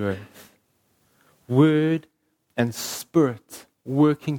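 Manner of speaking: fervent preaching voice. Acted. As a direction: preach it with rising conviction. Closing section of a sermon.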